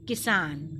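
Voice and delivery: किसान with a quick, short i in कि and a drawn-out सान; short-i demo. Shown as a demonstration. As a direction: model किसान for pupils, कि cut short, सान held. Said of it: "जो कि झटके के साथ हमने बोला".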